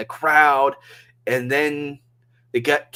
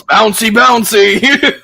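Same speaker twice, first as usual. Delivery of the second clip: drawn-out, high, loud catchphrase shout; slow sing-out yell, pitched way up; gleeful yelling; 10 semitones higher, 10 dB louder, slower than usual. Retold or imitated. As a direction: holler it like an excited commentator. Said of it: "I just kept yelling it out".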